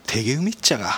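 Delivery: a short demo in Miyazaki dialect. Shown as a demonstration. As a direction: say it as a Miyazaki local would. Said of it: "宮崎弁".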